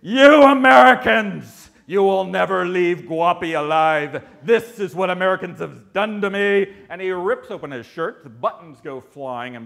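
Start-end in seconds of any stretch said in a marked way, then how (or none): 0.0-6.7 furious shouted outburst, high and loud; exploding in rage. Retold or imitated. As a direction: blow up at the Americans. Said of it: "Mister Mirrored Glasses explodes".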